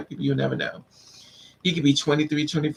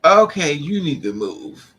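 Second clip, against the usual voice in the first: slow, louder, firm shutdown; firm brush-off; 7 dB louder than usual. Retold or imitated. To a pushy man in a store, slow firm brush-off. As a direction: put him in his place, slow and loud.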